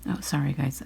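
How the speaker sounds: chewing gum while talking. Real, not acted. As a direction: say it round a wad of gum. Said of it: "I'm chewing gum".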